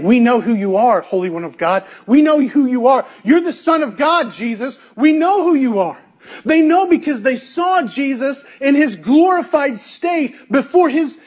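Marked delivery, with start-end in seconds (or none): 0.0-6.0 emphatic retold outcry, pitch climbing; proclaiming. Demons on their faces before Jesus, proclaiming. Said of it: "they proclaim".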